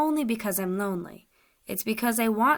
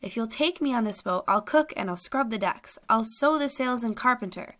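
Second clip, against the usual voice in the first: higher, pleading voice; begging; 3 semitones higher than usual. Acted. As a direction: beg for passage, rising on stand watch. Captive begs to be taken.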